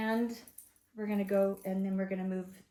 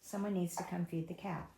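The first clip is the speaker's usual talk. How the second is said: low, softer demo of a normal speaking volume; soft everyday tone; 5 semitones lower, 8 dB quieter than usual. Shown as a demonstration. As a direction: say it softly as if in passing across the room. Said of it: "just in this tone and in this volume".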